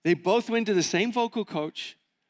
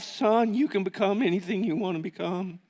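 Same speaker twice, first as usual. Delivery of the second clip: grandma's voice. Retold or imitated. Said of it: "she kinda said it like that too".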